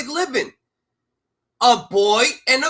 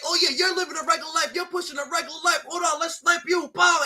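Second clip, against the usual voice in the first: higher, fast sneering mock voice; mocking haters; 5 semitones higher, faster than usual. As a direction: mimic the haters, quick and sneering. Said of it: "They mad like".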